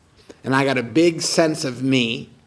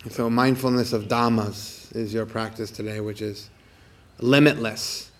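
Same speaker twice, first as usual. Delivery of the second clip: guided meditation. Acted. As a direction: guide listeners into calm awareness.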